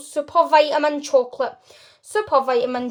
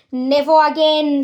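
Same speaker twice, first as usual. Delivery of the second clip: louder, firm outburst; shout; 7 dB louder than usual. Acted. Father shouts that the TV is going, loud. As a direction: shout it down with finality. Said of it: "shouted Mister T V".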